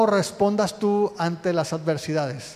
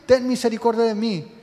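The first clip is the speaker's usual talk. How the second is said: higher and louder, pleading call to Jesus; imitating a desperate cry; 3 semitones higher, 3 dB louder than usual. Bartimeo calling over the crowd to Jesus, a pleading half-shout. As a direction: cry out for mercy as the blind beggar would. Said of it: "él sigue gritando".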